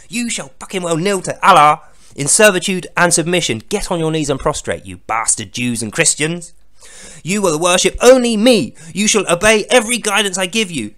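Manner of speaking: loud, hammed-up divine rant; ranting mock god. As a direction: bellow orders like a furious petty deity. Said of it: "That's literally what he's saying".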